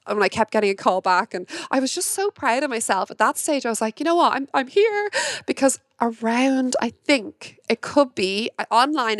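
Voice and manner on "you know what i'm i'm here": excited. Retold or imitated. Retelling her own elated thought.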